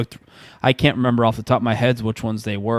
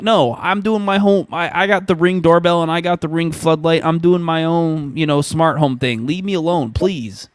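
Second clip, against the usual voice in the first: higher, fed-up refusal; exasperated brush-off; 4 semitones higher than usual. Retold or imitated. Retelling how he rejected a security salesman, exasperated. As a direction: tell him to leave you alone, exasperated.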